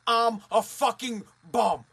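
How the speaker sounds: slow, deliberate self-condemnation; mirror confession. Acted. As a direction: spell it out slowly, word by word. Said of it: "look in the mirror right now and say".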